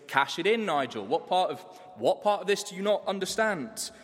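mildly hammed-up exasperation at the planner; exasperated demand. Client losing patience with his financial planner, mock exasperated.

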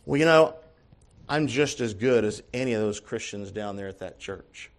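low, softening self-reassurance; self-soothing. Retold or imitated. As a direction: imitate someone quietly reassuring themselves. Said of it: "soothing themselves by saying something".

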